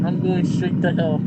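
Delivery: laughing. Real, not acted. Laughing at the scream clip.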